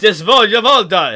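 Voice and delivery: loud, laughing fake German; mock German. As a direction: ham up a silly German accent. Mock German gibberish quote.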